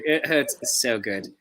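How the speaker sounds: low drawn-out parody; low slow drawl. Pretend. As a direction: drop low and stretch it. Second take, low slow.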